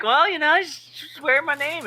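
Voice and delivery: high, slow consoling; teasing comfort; mock consoling. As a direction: soothe him with mock kindness. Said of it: "I'm like".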